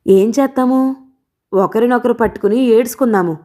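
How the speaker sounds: a dry, mocking jab at his wife; sarcastic. Balayya mocking his wife's complaints, mildly sarcastic. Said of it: "వెటకారం చేశాడు బాలయ్య".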